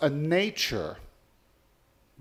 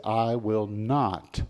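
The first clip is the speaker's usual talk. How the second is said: firm vow; 3 semitones lower, 4 dB louder than usual. Acted. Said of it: "They make that vow and they say".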